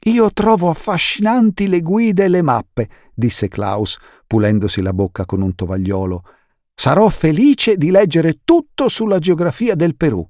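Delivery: keen to help with maps; lightly voiced eager boy; bookish boy. Klaus eager about maps.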